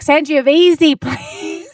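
"Sangiovese" said san-jee-uh-VEE-zee, confidently; mock mispronunciation. Teasing co-host's confident wrong "Sangiovese". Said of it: "you say, like".

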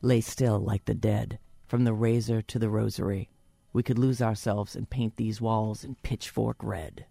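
reading through a head cold; stuffy cold voice. Real, not acted. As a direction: read it with a blocked-up cold voice. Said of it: "My cold is working for me".

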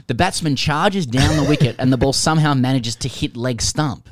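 animated read-aloud with punched key words; reading a listener's letter. Acted.

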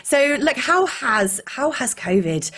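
hoarse, croaky throat. Real, not acted. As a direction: talk through a croaky sick voice. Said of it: "a croaky voice".

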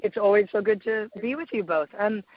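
hoarse from a cold; rough, raspy laryngitis voice. Real, not acted. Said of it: "excuse my raspy voice".

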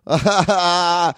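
high, loud laugh; real laugh after the joke. Real, not acted.

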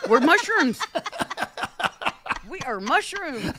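laughing through the words. Real, not acted. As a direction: giggle it out. Joking with laughter.

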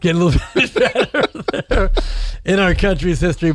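a hint of fussy Felix Unger; lightly voiced fussy Felix Unger. Co-host mimicking Felix Unger on air, a light put-on voice. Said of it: "Felix Unger".

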